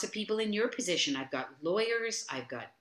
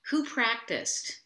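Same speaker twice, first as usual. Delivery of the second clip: slow, higher stern guru question; a guru quizzing his class, drawn out and higher; guru asking; 5 semitones higher, slower than usual. Retold or imitated. Class hears their guru ask slowly who practiced. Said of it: "my guru would say".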